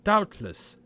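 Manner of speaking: loud, high "Doubtless"; startled outburst. Acted. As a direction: burst out, shaken.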